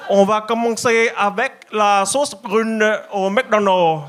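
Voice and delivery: a put-on Asian accent, slow and careful like a food reviewer. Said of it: "imaginez la version, tu sais, asiatique".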